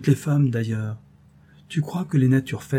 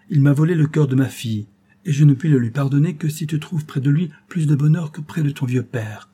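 agitated father; 3 semitones higher, 3 dB louder than usual. Acted. Father's outburst about the lover.

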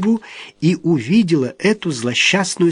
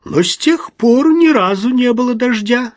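dryly; 8 semitones higher, 4 dB louder than usual. A narrator's reading. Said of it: "сухо заметила Альма".

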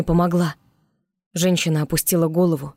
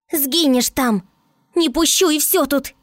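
high, strained defiant shout; fierce cry; 10 semitones higher, slower than usual. Acted. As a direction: refuse desperately at the top of the voice. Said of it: "прорычала она".

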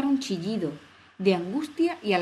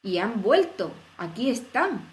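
tono triunfal; 2 semitones higher, 3 dB louder, slower than usual. Acted. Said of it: "dijo el rey en tono triunfal".

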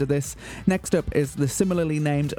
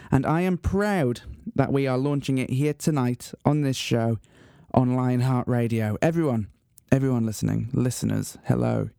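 measured, portentous radio announcer; grand announcement; 3 semitones lower than usual. Acted. Radio host unveiling his talent contest to listeners, grand announcement. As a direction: build solemnly to a big reveal.

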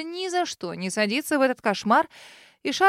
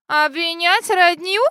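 much higher, louder, slow; shrill shriek; 7 semitones higher, 7 dB louder, slower than usual. Acted. Lady shrieks at being accused, squealing. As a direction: squeal in outrage. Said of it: "взвизгнула дамочка".

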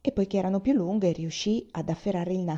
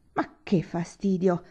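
afflicted complaint; slower than usual. Acted. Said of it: "si lagnò afflitta Madama".

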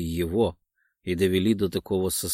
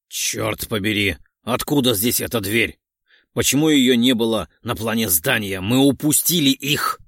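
frustrated outburst building to louder; angry, cheated of the catch; helpless fury; 5 dB louder than usual. Acted. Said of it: "В бессильной ярости я ударил по двери".

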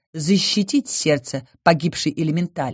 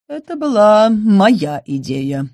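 slow admission; 4 semitones higher, 4 dB louder, slower than usual. Acted. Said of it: "признался Грисвольд".

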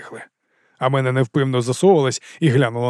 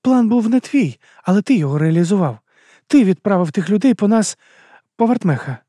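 higher female voice, steady and even; calm female voice; 7 semitones higher, 3 dB louder than usual. A narrator's reading. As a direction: Arada keeps a calm, pitched-up tone. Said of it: "таким же спокійним тоном". (спокійний вищий жіночий голос)

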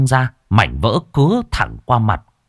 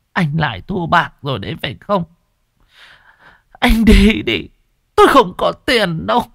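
put-on higher, sharp scolding old mother; angry refusal; 8 semitones higher than usual. Mother scolds her gambling son and sends him away angrily. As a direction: throw him out, she won't pay.

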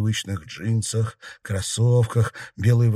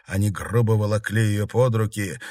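usual speaking voice

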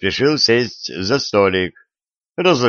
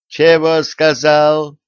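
high, loud and slow astonishment; can't believe what he just heard; astonished; 7 semitones higher, 4 dB louder, slower than usual. A narrator's reading. Tsar is told to try the boots on himself, astonished. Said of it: "изумился царь".

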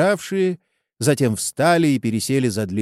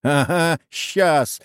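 shout; 5 semitones higher, slower than usual. A narrator's reading. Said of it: "крикнул раздающий".

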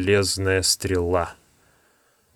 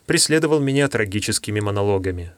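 usual speaking voice

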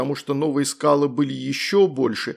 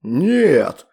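louder monstrous roar; 2 semitones higher, 6 dB louder than usual. A narrator's reading. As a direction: roar the refusal. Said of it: "взревел он".

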